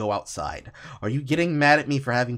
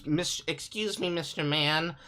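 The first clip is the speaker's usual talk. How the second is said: mocking small child; 3 semitones higher, slower than usual. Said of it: "small-ass children come to you and say".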